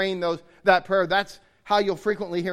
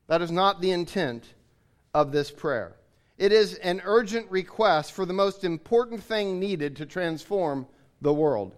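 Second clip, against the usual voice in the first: usual speaking voice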